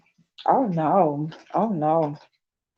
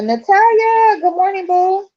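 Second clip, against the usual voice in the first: excited greeting; 12 semitones higher, 6 dB louder than usual. Real, not acted. Greeting a viewer by name.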